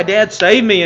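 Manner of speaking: a touch of a loud, desperate plea; mild voiced child calling Dad; child's cry. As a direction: cry out for rescue. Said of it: "them cry".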